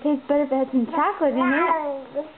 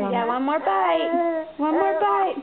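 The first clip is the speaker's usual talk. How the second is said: high coaxing; 6 semitones higher than usual. Real, not acted. Mother coaxing baby.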